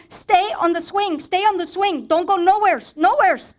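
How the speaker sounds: father shouting to his son to stay put; retold shouting. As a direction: call out across the park in a panic. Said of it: "shouting to Raul".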